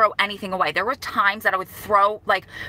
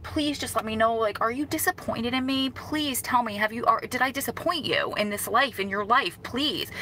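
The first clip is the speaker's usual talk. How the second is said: soft, emotional retold plea; pleading; 3 semitones higher, 5 dB quieter than usual. Daughter begging her late mom for reassurance, softly pleading. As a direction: plead quietly, holding back emotion.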